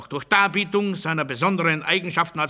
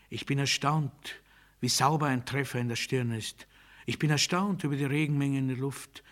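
hushed astonishment; 6 dB quieter than usual. Acted. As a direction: murmur each astonishment softly. Quiet litany of astonishment.

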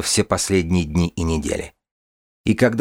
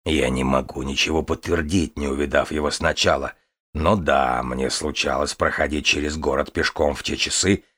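calm dragon voice; 4 semitones lower than usual. Acted. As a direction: speak as a calm, proud dragon. The dragon Kazimir speaks.

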